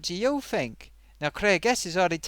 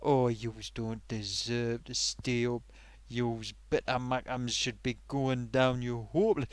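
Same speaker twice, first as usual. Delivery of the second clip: mock rival fan; 5 semitones lower, 4 dB quieter than usual. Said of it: "do you think".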